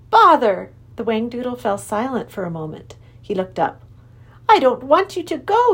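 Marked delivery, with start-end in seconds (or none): 0.1-0.7 exasperated exclamation. Acted. King exclaims. 4.5-5.7 king creature voice. Acted. King speaks.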